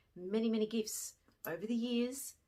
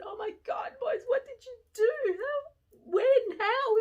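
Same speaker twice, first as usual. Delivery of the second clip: higher, louder, replaying the shock; stunned exclamation; 10 dB louder than usual. Teacher reacting to the boys' gift, shocked and much louder. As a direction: cry out in disbelief. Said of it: "And I said".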